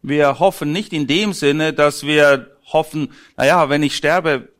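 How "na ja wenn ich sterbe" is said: lightly acted uncertainty. Interpreter voices an unsure believer musing on heaven, lightly acted uncertainty.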